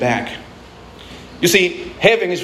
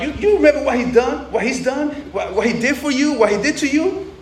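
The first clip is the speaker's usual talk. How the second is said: much higher, incredulous reproach; resentful older brother; 7 semitones higher than usual. Acted. The older brother refusing to forgive, higher and incredulous. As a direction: demand he remember the wrongs.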